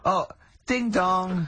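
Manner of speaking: drawn-out, high doorbell chime; comic catchphrase character. Pretend. Wheeling out a catchphrase for the co-host, in a high comic voice. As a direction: sing out a slow mock doorbell. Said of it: "You'd bring back Holy Fook".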